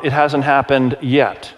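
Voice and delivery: "yet" set apart and drawn out; stress on yet. Real, not acted. Preacher teasing those under thirty, stress on "yet". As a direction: lean slowly on the word "yet". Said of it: "I stress the word yet".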